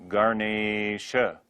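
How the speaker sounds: Ganesha drawn out as "ga-neee-sha"; long e in Ganesha. Shown as a demonstration. Teacher modelling a Sanskrit word, long-e Ganesha. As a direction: hold the middle e of Ganesha. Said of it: "will always be long".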